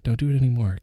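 loud pretend infomercial pitch; mock ad pitch. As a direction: push the fake sales pitch out loudly. Mock radio ad read.

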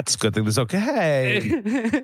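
giggling through the words; laughing. Real, not acted. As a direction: laugh it out, slow. Laughing after being teased.

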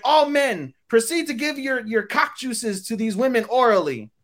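a lightly hammed-up wise hero; mock solemn hero. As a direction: lecture the crowd like a sage. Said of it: "he's like".

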